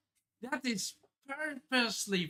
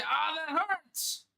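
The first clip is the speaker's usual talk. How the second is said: Luffy; 6 semitones higher, slower than usual. Acted. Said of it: "And Luffy say".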